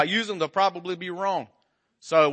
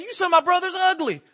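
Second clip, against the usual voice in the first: indignant husband; 12 semitones higher than usual. Retold or imitated. Husband's comeback.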